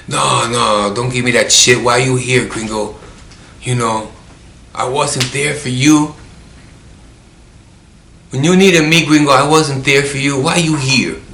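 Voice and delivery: insistent, pitch climbing on the later questions; retold protest. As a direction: push back at a friend, voicing his objection. Acting out friend's protest before surgery.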